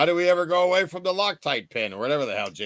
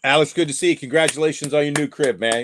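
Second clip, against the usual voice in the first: hype shout-out; 5 dB louder, faster than usual. Real, not acted. Hyping up Alex.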